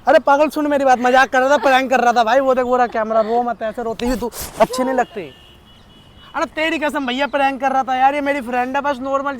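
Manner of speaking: loud, eager prank reveal; excited reveal. Real, not acted. Boyfriend telling crying girlfriend it was a prank, loud and eager. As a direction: rush to calm her, it was a joke.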